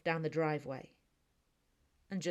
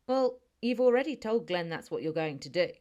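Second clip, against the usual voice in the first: louder, playful tease; teasing; 6 dB louder than usual. Acted. Girlfriend teases Noah about announcing the goodbye kiss. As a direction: needle him a little, fondly. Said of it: "I said teasingly".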